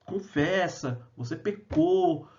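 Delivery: accusing friends. Retold or imitated. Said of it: "bombardeava ele com palavras falando".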